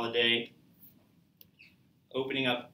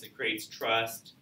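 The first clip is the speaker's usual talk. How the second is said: slow emphasis; much slower than usual. Shown as a demonstration. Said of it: "slowed for emphasis".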